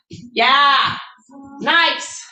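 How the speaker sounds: loud workout cheer; punchy trainer's cheer; encouraging shout. Real, not acted. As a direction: call out praise mid-exercise.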